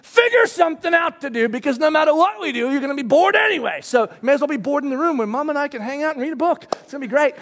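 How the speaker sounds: mock command. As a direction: bark it like a house rule. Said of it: "and say".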